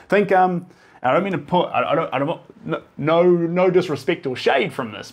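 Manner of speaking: high laughing disclaimer. Real, not acted. Laughing disclaimer mid-talk.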